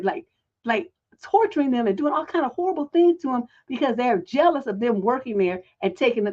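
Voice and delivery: ordinary talk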